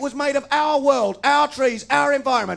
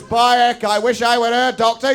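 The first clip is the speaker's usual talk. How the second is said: northern bloke; 4 dB louder than usual. Retold or imitated. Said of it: "amicable northern stereotype".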